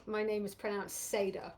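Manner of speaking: Seda, first syllable like say, short flat A; plain pronunciation. Shown as a demonstration. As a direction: say Seda evenly. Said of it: "pronounce your name for us".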